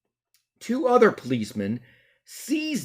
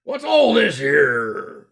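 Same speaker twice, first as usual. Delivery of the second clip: slow, louder constable query; slow policeman voice; 3 semitones higher, 8 dB louder, much slower than usual. Shown as a demonstration. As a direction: stretch it like a bobby. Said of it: "he said it like this".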